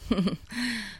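short motherly chuckle; a light amused laugh; soft laugh. A narrator's reading. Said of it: "Мать засмеялась". (мягкий смешок)

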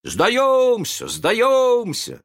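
high, loud eager cry; shouted surrender. A narrator's reading. Pirates give up the guessing game, shouting. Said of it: "закричали они".

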